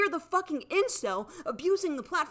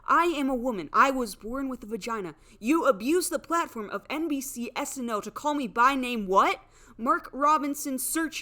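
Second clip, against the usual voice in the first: angry declaration; 5 dB louder than usual. Real, not acted. Angry rant at Bowen.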